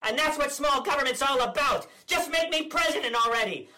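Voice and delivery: blustering politician impression, smug and combative; Ron DeSantis parody. Comedian as DeSantis ranting at the press, blustering. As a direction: play the governor as a cocky blowhard.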